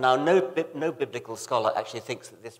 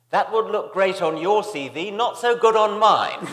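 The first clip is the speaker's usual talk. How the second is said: put-on louder, higher Australian accent; attempted Australian accent; 10 semitones higher, 12 dB louder than usual. Quoting an Australian colleague's reply on creationist debates, Australian accent. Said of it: "my attempt at an Australian accent".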